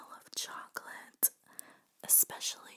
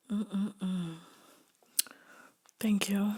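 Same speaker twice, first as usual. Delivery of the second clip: eating chocolate; 10 dB louder, much slower than usual. Real, not acted. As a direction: mouth full of chocolate. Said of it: "I have chocolate in my mouth".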